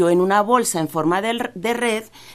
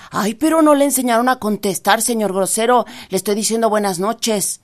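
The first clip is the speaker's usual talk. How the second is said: high rabbit voice, indignant and a bit louder; offended rabbit; 4 semitones higher, 3 dB louder than usual. Acted. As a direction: scold the rude scarecrow, piqued. Rabbit scolds scarecrow.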